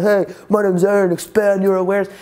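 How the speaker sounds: mock starstruck stage greeting, a little eager; hammed-up thrilled seminar intro; excited. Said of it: "How cool would that be?".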